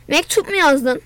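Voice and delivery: ordinary delivery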